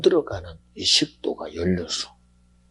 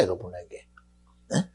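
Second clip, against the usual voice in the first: usual speaking voice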